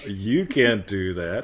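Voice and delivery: slow, teasing seductive line. Shown as a demonstration. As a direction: stretch it out suggestively. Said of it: "either Mickey Mouse or seductive".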